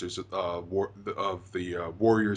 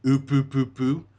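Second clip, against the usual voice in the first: imitated cartoon laugh in repeated oops; mock character laugh, evenly spaced syllables; Monokuma; 4 semitones higher, 7 dB louder than usual. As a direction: chant out a louder, punched "oop" laugh. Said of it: "you know how he laughs".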